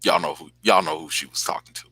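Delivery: conspiratorial whisper. Real, not acted. Vlogger hinting at a secret to viewers, in a whisper. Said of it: "whispered aside".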